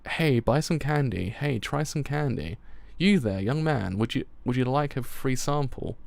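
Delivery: lightly voiced street hawker; a hint of a sing-song vendor; peddler's call. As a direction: call out wares, drawing words out. Peddler calls out to passers-by.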